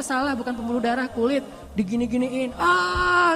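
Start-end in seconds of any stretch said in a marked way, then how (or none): 2.5-3.3 retold pain yell. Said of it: "saya teriak-teriak di rumah sakit".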